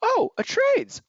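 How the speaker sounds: high, slow disdainful "oh, a trades"; drawn-out condescension, stretching the word oh; sniffy. Acted.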